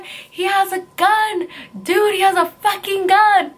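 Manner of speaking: very high imitated panicked cry; friend freaking out. Friend warning driver about a gun, imitated high-pitched panic. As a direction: squeal it out like a terrified friend. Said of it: "my friend's freaking out".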